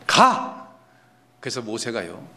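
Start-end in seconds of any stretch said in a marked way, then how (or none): 0.0-0.7 short, high burst of anger; exasperated acted outburst; angry command. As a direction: lose patience in one loud syllable. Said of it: "나중에 화까지 냅니다".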